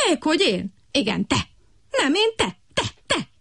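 high, quick back-and-forth squabble; bickering frogs. A narrator's reading. Two frogs blaming each other, high squabbling. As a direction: toss the blame back.

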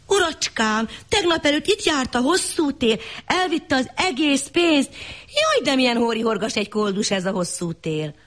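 high, breathless little wife; wife's high voice. Acted. Wife to husband about the lost money, high and fretful. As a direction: pitch up high and fret.

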